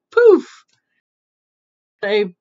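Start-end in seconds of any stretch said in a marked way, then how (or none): 0.1-0.6 high, loud burst; magic poof. Acted. Storyteller as the soup spell works, explosive poof.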